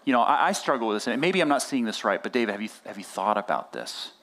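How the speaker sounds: lightly voiced gentle nudge, ending low; thoughtful, gentle. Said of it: "He very thoughtfully goes".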